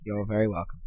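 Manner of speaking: put-on British accent for a podcast co-host. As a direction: speak in a posh-leaning British accent. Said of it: "I'm gonna talk in a very British accent".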